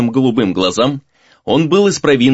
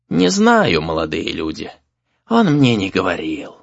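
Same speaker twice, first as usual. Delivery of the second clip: put-on old man; 4 semitones lower than usual. A narrator's reading. Old exorcist voiced by narrator.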